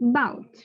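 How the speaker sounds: About said 'bout'; About without its first vowel; silent A. Shown as a demonstration. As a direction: clip the A off About. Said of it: "silence this thing".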